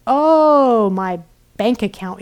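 hammed-up lament; mock wailing. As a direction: moan it like a tragic lament. Voicing Ereshkigal's wailing.

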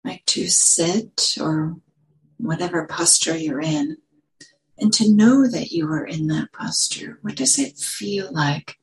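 unhurried guiding voice with long pauses; calm meditation teacher, phrase by phrase; guided meditation. Real, not acted. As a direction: lead them gently into settling, leaving space between phrases.

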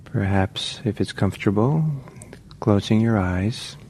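unhurried meditation guidance with long pauses; measured meditation-teacher delivery, phrase by phrase; guided meditation. Real, not acted. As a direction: guide listeners gently, leaving long silences between phrases.

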